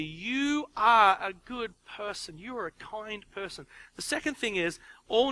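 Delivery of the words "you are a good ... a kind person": put-on slow, warm affirmation to a child; affirming. Shown as a demonstration. Parent affirming a child, slow and kind. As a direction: tell the child who they are, slowly and kindly. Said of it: "the first statement should be a".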